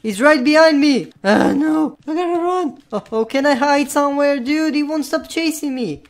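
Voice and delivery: high urgent chase panic; panicking gamer. Real, not acted. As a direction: flee in a panic. Chased by the enemy.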